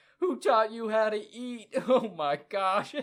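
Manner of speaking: shrill, very loud and high cry full of laughter. A game narrator voices a character laughing at the player, laughing while talking. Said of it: "and just starts laughing".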